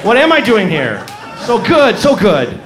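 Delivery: hammed-up, self-adoring moaning delivery; mock ecstasy. Winding down the mock self-adoring climax.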